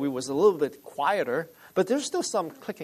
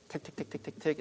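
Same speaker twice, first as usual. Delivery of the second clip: quick, soft run of ticks; imitated telegraph ticking; 10 dB quieter, faster than usual. Pastor explaining Morse code to listeners, imitated soft ticking. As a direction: tick softly like a Morse key.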